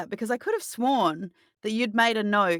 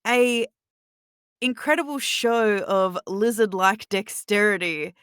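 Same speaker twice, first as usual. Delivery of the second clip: game master narration; 3 dB louder, slower than usual. Acted.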